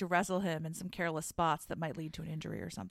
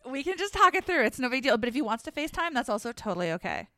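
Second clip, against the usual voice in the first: louder and higher, chipper; eager excited voice; 4 semitones higher, 4 dB louder, faster than usual. Pretend. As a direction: sound thrilled to help. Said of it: "That's how I would sound".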